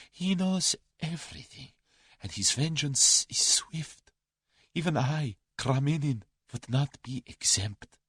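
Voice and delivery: high, slow, ominous Russian; fearful Russian. A narrator's reading. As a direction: warn of a man you dread.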